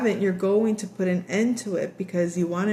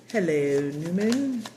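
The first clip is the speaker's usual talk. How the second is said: Jerry's greeting; slower than usual. Retold or imitated. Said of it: "every time they saw each other".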